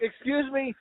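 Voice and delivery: panicked fumbling. Retold or imitated. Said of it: "laughs; I panicked, I made it worse".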